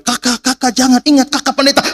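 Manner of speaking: high, urgent pleading call; mother's retold yell. Mother in the car begging her pastor child to stop, high urgent cry. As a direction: imitate a mother calling out to stop him. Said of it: "mama saya teriak dari dalam mobil".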